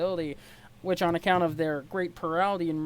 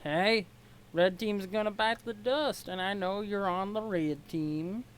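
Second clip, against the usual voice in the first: badly faked Southern US accent; crappy Southern accent. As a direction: taunt in a shaky attempt at a Southern accent. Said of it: "giving him a really crappy Southern accent".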